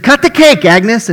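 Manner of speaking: high, loud bellow of a gruff cook; a boisterous diner owner hollering; excited shout. Acted. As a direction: yell it across the diner, pushing her on. Owner urges Agnes a third time.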